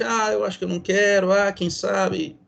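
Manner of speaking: hesitant no. Retold or imitated. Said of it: "E não simplesmente".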